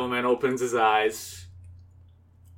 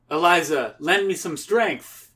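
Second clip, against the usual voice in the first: slightly raised dramatic plea; pleading hero; 5 semitones higher than usual. Acted. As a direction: call on an ally for strength. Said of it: "he's like".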